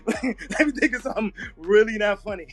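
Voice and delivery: laughter breaking into each word; trying to stay straight, still giggling; laughing through it. Real, not acted. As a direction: Let me think of something really not funny, said while laughing. Repeats line while laughing.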